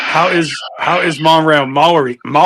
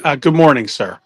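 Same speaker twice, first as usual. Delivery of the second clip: lightly put-on comic broken English; broken-English character voice. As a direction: play the pedalling rickshaw man.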